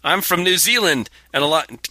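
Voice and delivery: put-on high, amateur New Zealand accent. Host reads Bonnie's letter, mock New Zealand accent. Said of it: "Can you do a New Zealand accent".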